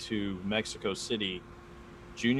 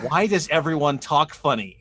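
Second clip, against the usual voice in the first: retold question; 5 semitones higher, 6 dB louder than usual. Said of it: "and I asked my teacher".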